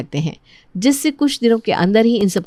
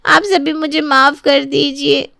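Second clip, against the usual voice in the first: pleading apology; 3 semitones higher than usual. Acted. Caught schemer begs forgiveness.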